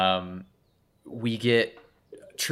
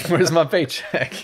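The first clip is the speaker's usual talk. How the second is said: lazy actor; 4 semitones higher, 7 dB louder, faster than usual. Retold or imitated. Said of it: "he's like".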